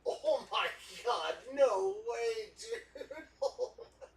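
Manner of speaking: high shrieking squeal of disbelief; shrieking jackpot winner. Real, not acted. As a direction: scream with joy at a big pull. Huge card pulled from box.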